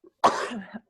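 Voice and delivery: a sudden sneeze; sneezing. Real, not acted. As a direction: sneeze into the mic. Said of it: "Excuse me, I'm going to sneeze".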